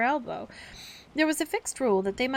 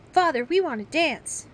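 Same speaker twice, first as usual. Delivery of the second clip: eager; 7 semitones higher, 7 dB louder than usual. Acted. Child begging father.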